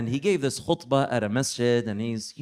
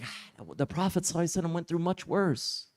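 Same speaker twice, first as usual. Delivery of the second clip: calm, unbothered; 3 semitones higher, 7 dB quieter, faster than usual. Retold or imitated. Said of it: "He was totally cool".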